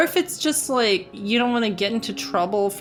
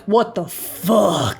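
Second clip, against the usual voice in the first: retold shock; much slower than usual. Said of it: "I was like".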